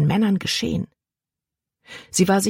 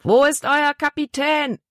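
much higher, forceful roar; bellowing; 10 semitones higher than usual. A narrator's reading. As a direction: bellow it up at the boat. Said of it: "brüllte der große Mann".

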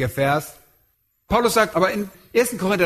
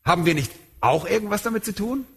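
objecting listener; faster than usual. Retold or imitated. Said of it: "Ihr sagt".

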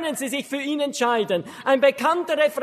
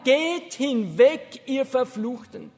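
tearful; slower than usual. Acted. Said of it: "mit einer tränenerstickten Stimme".

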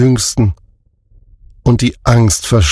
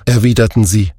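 ordinary delivery

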